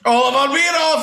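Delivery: high delighted exclamation; excited. Real, not acted. Host delighted the riddle was solved, high. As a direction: cheer the answer.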